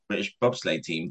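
a touch of mock disbelief; disbelieving echo. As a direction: mutter it back like it's absurd. Echoing the offer in disbelief.

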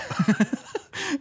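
high-pitched laugh. Real, not acted. Laughs after his own remark.

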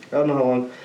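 talking through a burp; a burp caught mid-sentence; burping after fizzy drink. Real, not acted. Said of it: "Excuse me, I'm burping here".

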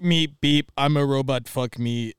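lightly voiced robot; hint at a simple beeping robot; mock robot talk, understated. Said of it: "if it's just like".

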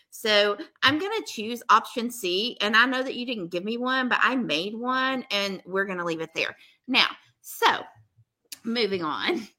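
firm, matter-of-fact teacher tone. Real, not acted. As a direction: lay it down like a teacher. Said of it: "I just got my teacher voice out with you".

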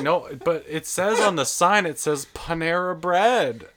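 put-on high, loud old man insisting; put-on old man, slowing on the last words. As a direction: imitate an old customer arguing his point. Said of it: "like, this old, old man".

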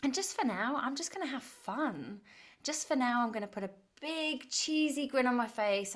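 light, playful promise to yourself; playful self-talk. Acted. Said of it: "put your playful pants on".

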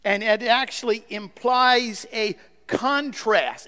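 usual speaking voice

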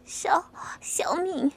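slow, stammering whisper; frightened whisper. Acted. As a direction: barely get the name out. Terrified answer to captor.

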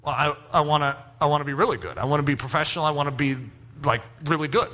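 a hint of a shy boy answering his coach; nervous young singer. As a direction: stammer out the dream. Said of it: "I go".

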